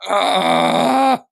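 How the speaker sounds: loud sudden yelp; surprised cry; shocked yelp. Real, not acted. Reacting to a description.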